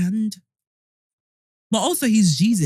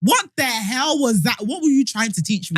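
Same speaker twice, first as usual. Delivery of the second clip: mock indignation; 3 semitones higher than usual. Child challenges Dad about what all that happened, mock indignant. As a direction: demand an answer in playful disbelief. Acts out confronting God as parent.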